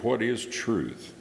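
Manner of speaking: slow, gently inquisitive question; plaintive, inquisitive. Acted. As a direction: ask it slowly, as if earnestly wondering. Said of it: "a plaintive or inquisitive".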